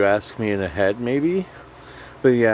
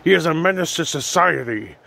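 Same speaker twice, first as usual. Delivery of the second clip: J. Jonah Jameson; 4 semitones higher than usual. Retold or imitated. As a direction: bark orders like a gruff editor. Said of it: "I hear J. Jonah Jameson here".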